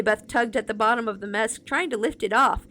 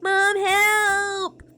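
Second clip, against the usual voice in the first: frightened cry for help; 10 semitones higher, 5 dB louder than usual. Acted. Boy calls for help.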